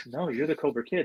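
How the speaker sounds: a hint of film-buddy banter; Vince Vaughn. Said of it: "just like he's in the movie".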